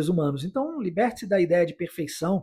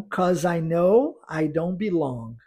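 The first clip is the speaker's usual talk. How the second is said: slow, careful song line; slow model line; slower than usual. Shown as a demonstration. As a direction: say it slowly for the class to repeat. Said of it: "Vamos repetir?". (leitura lenta e cuidadosa)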